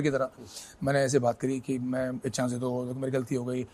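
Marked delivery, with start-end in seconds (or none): 1.8-3.7 put-on childish pleading. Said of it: "ऐसे एक बच्चे की तरह मैंने उसको एक बिहेव".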